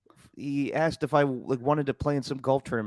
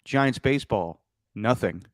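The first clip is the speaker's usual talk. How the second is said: sardonic deadpan; 2 semitones lower than usual. Retold or imitated. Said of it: "as some fans just say now".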